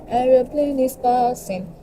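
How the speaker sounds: high, slow singsong "Aeroplane is passing"; singsong aside. Pretend. To viewers about the noise, slow high singsong. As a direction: chant it playfully like a kid. Remarking on plane noise playfully.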